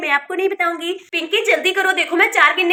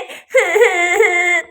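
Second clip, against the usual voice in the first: sob. Acted. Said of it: "तुम क्यों रो रही हो बेटा?".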